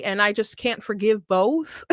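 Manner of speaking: says it through a burst of laughter; laughing. Real, not acted. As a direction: laugh while you say it. Laughs while repeating her verdict.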